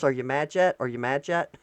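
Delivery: mock her teasing question; imitating her. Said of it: "just her going like this".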